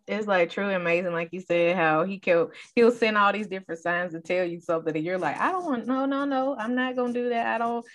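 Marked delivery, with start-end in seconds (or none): 5.4-7.9 higher-pitched mock protest; balking refusal. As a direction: refuse in a string of quick no's, pitched up. Voicing someone resisting God's signs.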